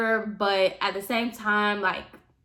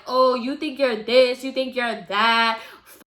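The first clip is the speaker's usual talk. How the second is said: imitating a man cursing her out, a bit louder; retold tirade in a lightly put-on voice; half-hearted angry stranger voice; mock rant; 3 semitones higher, 4 dB louder than usual. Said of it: "he just started going in on me".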